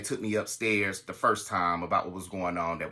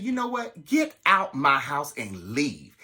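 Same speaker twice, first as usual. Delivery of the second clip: retold order out; 2 semitones higher, 4 dB louder, slower than usual. Ordering boyfriend out of her house.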